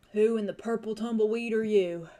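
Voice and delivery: put-on rough, deep drawl with an accent; gravelly drawling stranger. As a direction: growl it like a wary old frontiersman. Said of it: "a rough and quite gravelly, deep voice and the drawl of an accent".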